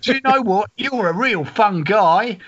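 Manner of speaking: high, stretched-out punchline; milk the pun slowly for the crowd; hammed-up music-hall comic; vaudeville comedian.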